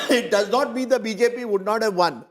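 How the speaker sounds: talking through a cough; coughing between words; chesty cough. Real, not acted. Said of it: "Sorry, I have got a cough".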